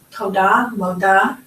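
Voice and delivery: TODA, MODA with matching "-DAH" endings; rhyming comparison. Shown as a demonstration. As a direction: set toda beside moda, stressing the shared ending. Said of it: "hear the, the similarity?".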